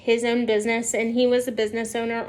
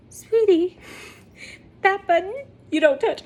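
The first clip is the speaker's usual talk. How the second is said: put-on higher, sweet-talking officer warning a small child; a light, gentle scolding officer; 6 semitones higher than usual. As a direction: mildly scold a four-year-old, sweetly. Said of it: "the officer goes".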